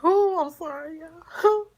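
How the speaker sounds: high-pitched, tearful apology; real crying breaking into the words; trying not to cry. Real, not acted. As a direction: choke out an apology through tears. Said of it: "I'm trying not to cry".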